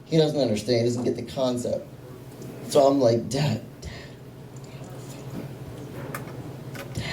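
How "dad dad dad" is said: hushed, spaced-out calls to get attention; trying to mouth it. Acted. Son secretly signalling his dad while on the phone, trying to mouth it. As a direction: call softly, barely voicing it. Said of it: "I'm trying to mouth to him".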